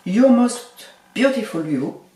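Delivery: slow, drawn-out attempt at an English accent; English product name in a deliberate, slow English accent; self-mocked English accent. Shown as a demonstration. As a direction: show off your English accent, tongue in cheek. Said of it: "avec mon magnifique accent anglais".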